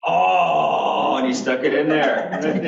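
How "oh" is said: tag. Retold or imitated. Retold dawning realization at machine.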